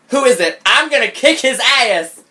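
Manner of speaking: high, indignant read-aloud outburst; growled threat, hammed-up. A narrator's reading. Best friend vowing to kick his ass, mock growl. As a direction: threaten on the friend's behalf, playfully overdone. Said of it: "She growled".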